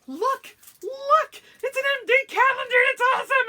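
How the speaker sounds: high, loud, fast squealing gush; excited gushing. Retold or imitated. Showing husband the calendar, high fast excited squeal. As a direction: bounce with excitement over the calendar. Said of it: "I will definitely be like".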